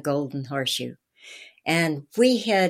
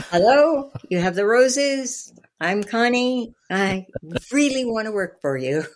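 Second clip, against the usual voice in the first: much higher and louder, bubbling over; gushing excited hello; 6 semitones higher, 4 dB louder than usual. Retold or imitated. Starstruck teen rushing up to Don outside City Hall, gushing and much higher. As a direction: burst out like a starstruck fan.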